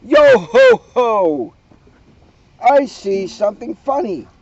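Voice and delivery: very high, loud gleeful squeal; squeaking with delight. A narrator's reading. Leona mocking Pirate Floyd, high gleeful squeal. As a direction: crow with mean glee. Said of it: "Leona squeaked with delight".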